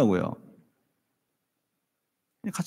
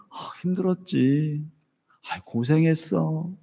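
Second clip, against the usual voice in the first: soft reassurance; 4 dB quieter than usual. Shown as a demonstration. Demo of life-giving words.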